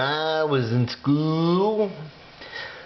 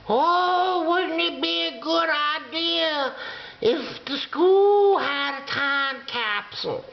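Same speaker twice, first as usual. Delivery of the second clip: high, sing-song teacher suggestion; sweet teacher voice; 9 semitones higher than usual. Acted. Sixth grade teacher pitching a time capsule, high sing-song. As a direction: chirp it like a cheerful teacher. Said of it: "the sixth grade teacher says".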